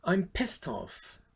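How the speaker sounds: drawn-out, slow annoyed complaint. Shown as a demonstration. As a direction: drag out I'm with irritation. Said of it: "vous êtes très énervé quand vous dites ça". (énervé et traînant)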